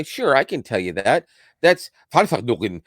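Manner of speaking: mock German assistant voice; a light German accent on Verfassung; imitating a German accent. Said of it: "in perfect German accent".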